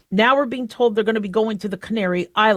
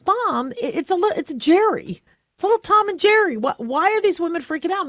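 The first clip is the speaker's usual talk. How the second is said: put-on higher, puzzled child's voice; little kid self; 8 semitones higher than usual. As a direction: play your younger self asking mom. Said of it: "I'm like".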